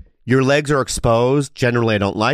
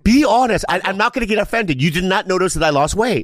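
insistent; 7 semitones higher than usual. Real, not acted. Insisting on honesty, higher.

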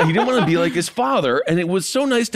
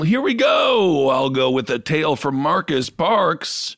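announcer intro; slower than usual. Acted. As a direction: announce the tale with ham. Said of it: "announcing the story".

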